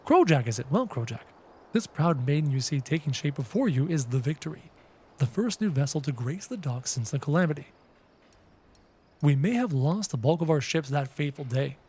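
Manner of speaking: a hint of a formal craftsman; lightly acted game character, not far from own voice; lightly voiced NPC. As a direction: read the game character's lines, a touch stately. Reads NPC dialogue aloud.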